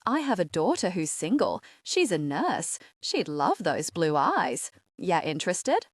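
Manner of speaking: put-on matchmaking Australian accent; playful thick Australian accent. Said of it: "thick Australian accent".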